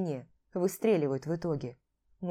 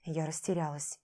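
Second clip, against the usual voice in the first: plain reading voice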